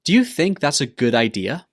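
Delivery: "Do you think that's a good idea?" rising at the end; rising intonation. Shown as a demonstration. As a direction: lift the pitch on "idea?". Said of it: "needs to go up at the end".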